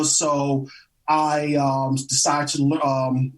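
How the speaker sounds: halting, with ums and restarts; stammering. Real, not acted. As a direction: stumble over the words, hesitating. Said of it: "I'm, like, stammering all over the place".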